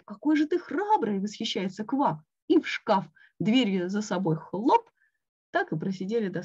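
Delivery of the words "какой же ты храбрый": admiring. A narrator's reading. Admiring friend in story.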